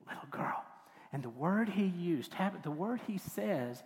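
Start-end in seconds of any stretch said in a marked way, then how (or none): 0.1-0.6 soft, tender whisper; near whisper. Acted. Jesus to Jairus' daughter, in a near whisper. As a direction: lean in and almost whisper. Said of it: "almost in a whisper".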